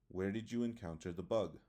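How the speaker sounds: WH question dropping on "bug"; falling intonation. Shown as a demonstration. Teacher demonstrating a WH question, falling intonation. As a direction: ask it with the pitch falling on "the bug". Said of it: "Falling intonation".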